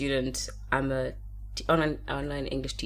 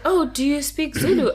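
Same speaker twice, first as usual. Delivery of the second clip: high, louder imitation of a student; curious student; 10 semitones higher, 6 dB louder than usual. Student asking her English teacher about Zulu, eagerly. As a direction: pitch it up as an eager learner. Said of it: "And she's like".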